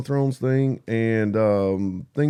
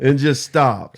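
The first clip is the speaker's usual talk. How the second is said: laughing; 6 dB louder, slower than usual. Real, not acted. Describing life graph stopping.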